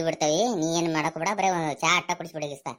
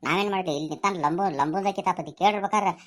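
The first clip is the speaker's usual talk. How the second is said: high pleading protest; 5 semitones higher than usual. Acted. Pleads innocence to mother.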